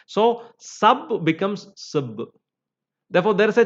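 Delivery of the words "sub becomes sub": first sub full, second sub weak; vowel change. Shown as a demonstration. Teacher shows vowel quality change, sub reduced to weak sub. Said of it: "change in, in the vowel quality".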